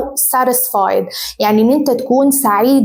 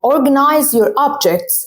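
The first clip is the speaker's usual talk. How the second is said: organize your OBjects, slow and clear; slow teacher reading; slow model sentence; 2 semitones higher, slower than usual. Shown as a demonstration. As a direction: dictate it slowly. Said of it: "For example".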